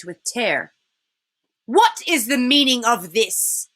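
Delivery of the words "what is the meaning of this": icy queen demanding an answer; a hint of a haughty witch, cold and commanding; queen catching the creatures feasting; lightly voiced cold witch queen. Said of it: "asked the witch queen".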